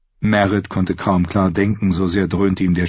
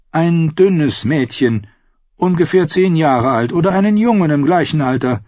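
higher-pitched, composed questioner; singer outlaw, inquiring; 8 semitones higher, 4 dB louder than usual. Acted. Singer questions the captive about a runaway, composed inquiry. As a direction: lay out the search as the outlaw singer.

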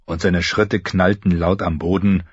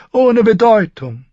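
Varys dismissive; 7 dB louder than usual. A narrator's reading. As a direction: brush it aside smoothly. Varys continues.

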